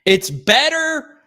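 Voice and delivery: high, loud mock-British commentator voice; hammed-up British accent, high and loud; crappy British accent. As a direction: belt it out slowly in a bad British accent. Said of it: "gonna be a crappy British accent".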